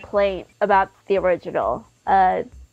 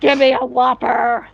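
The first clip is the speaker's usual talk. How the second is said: Scorpion voice; 3 semitones higher than usual. Pretend. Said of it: "talk like that".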